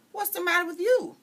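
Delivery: put-on high startled cry of a girl; alarmed shout. Girl cries out at Pecola in alarm.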